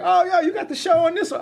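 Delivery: a classmate in the cafeteria recognizing him. Retold or imitated. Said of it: "in the caf and like".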